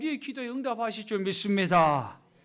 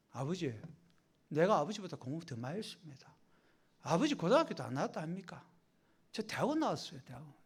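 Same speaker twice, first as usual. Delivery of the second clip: low, softer, condescending boast to father; smug grown son; 4 semitones lower, 5 dB quieter, faster than usual. Pretend. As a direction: brag down at your old father. Grown child lecturing his father.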